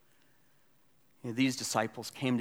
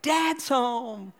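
put-on high, loud, drawn-out child's cheer; excited kids; 13 semitones higher, 7 dB louder than usual. Kids greeting dad at the door, excited imitation. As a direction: call it out like thrilled children. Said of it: "the kids would be like".

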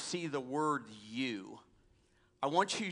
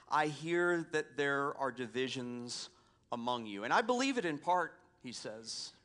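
raised, earnest reading of Paul; scripture reading. Acted. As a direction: read the letter with weight. Reads Paul's letter aloud.

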